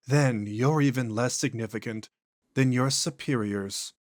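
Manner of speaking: an ancient thing speaking through a man; eerie, unhurried entity; possessed alien voice. Acted. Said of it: "voice and inflections are noticeably different".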